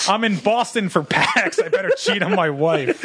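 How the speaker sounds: slow, high, laughing parody; mocking voice. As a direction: laugh through the mock confession. Mock convention goer.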